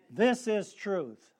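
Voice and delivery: slow, weighty "This is truth" with THIS stressed; call to repeat. Shown as a demonstration. Preacher calls the congregation to say it, slow and weighty. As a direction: lead the church in a slow refrain. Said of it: "Let's say it together".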